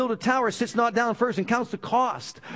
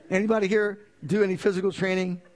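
asked again through a laugh; laughing repeat; faster than usual. Real, not acted. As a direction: chuckle while you ask it again. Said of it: "We better start a program up".

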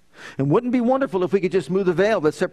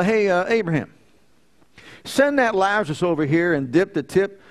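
lightly voiced rich man, curt and demanding; mock barking orders; 3 semitones higher than usual. Preacher mocking the rich man ordering Abraham, mildly bossy. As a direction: toss off the order like a spoiled master. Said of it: "he's barking out orders".

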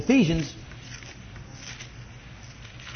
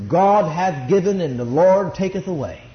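put-on deep, pious voice; exaggerated real deep voice; mock deep voice; 4 semitones lower than usual. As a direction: intone it low, mocking solemn scripture-quoters. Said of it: "Put on that real deep voice".

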